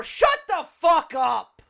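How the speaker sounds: slow, loud, stretched-out put-down; loud dismissive retort. Retold or imitated. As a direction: punch each word out loudly and slowly. Acting out the other blunt answer.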